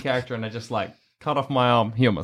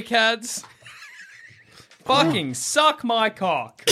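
mock taunt; 8 semitones higher, much slower than usual. Victory taunt over dead bear.

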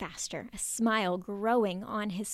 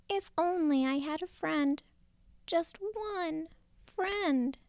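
sad sigh; 8 semitones higher than usual. Acted. Lonely Turtle sighing to himself, sadly. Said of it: "he sighed sadly".

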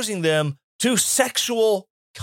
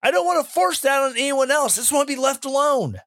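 higher, fast, pleading friend's voice; a lightly voiced friend rushing a higher plea; pleading gay friend; 7 semitones higher, faster than usual. Gay friend asking to be left alone, higher and fast.

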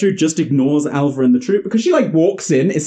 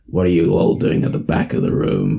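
much lower, gravelly grandma voice; deep gravelly voice; 8 semitones lower than usual. Retold or imitated. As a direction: growl it like a gruff old grandma. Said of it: "really deep, gravelly voice".

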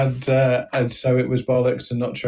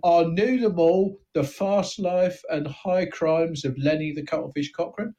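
a small-time crook boasting, thin Cockney voice; East End gangster. Acted. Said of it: "I'm searching for the right note for this voice".

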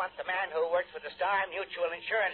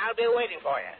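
louder, clipped final warning; curt threat; 3 semitones higher, 5 dB louder than usual. Acted. Cranky client ending the phone call, curt and irritated. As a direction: slam the line shut with it.

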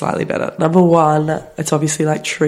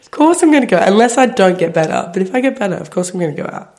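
indignant retort; 4 semitones higher than usual. Retold or imitated.

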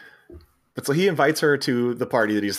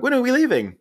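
higher, eager, hammed-up foreign-sounding rich kids; pushy rich siblings; 13 semitones higher, faster than usual. Brazilian siblings butting in on Chevy, pitched higher and eager. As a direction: barge in with a brightly pushy invite. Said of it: "they're like".

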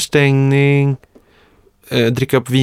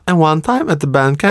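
American Pie quote. Retold or imitated. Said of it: "lite som American Pie när hon bara".

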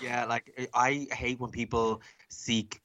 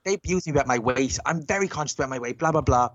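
pitched-up mimicked grievance; imitated indignant complaint; 5 semitones higher than usual. Drag queen telling manager about weight insult, imitated indignation. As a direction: mimic an affronted customer's complaint.

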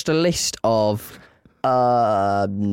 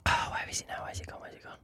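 whisper; 16 dB quieter, much faster than usual. Real, not acted. Searching, fading to whisper.

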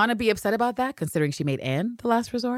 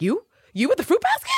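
much higher, incredulous squeak of a question; mock disbelief; 8 semitones higher than usual. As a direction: act stunned, can't believe it's her.

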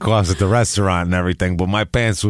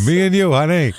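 sleazy come-on; 7 semitones higher than usual. Pretend.

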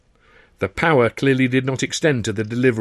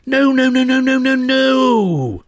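frantic protest; 14 semitones higher, 6 dB louder, much slower than usual. Acted. Luscombe frantically stopping Dando.

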